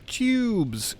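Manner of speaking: high-pitched "whee"-like call, falling away; playful, drawn-out high holler; gleeful shout. Shown as a demonstration. Streamer showing what they want to shout, high playful shout. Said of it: "I want to shout".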